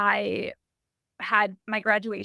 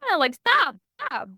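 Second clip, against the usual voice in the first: dismissive father; 6 semitones higher than usual. Retold or imitated. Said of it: "He'd be like".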